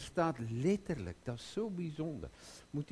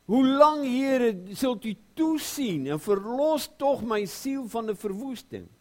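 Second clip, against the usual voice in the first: lament; 10 semitones higher, 10 dB louder than usual. Acted. Psalmist's lament quoted.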